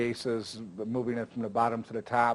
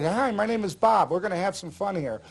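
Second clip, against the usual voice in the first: bright, higher, eager hello; energetic greeting; 5 semitones higher than usual. Shown as a demonstration. Magician greeting a table with energy, upbeat and higher. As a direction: greet them like you're about to have a blast. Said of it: "Walk up with, with energy".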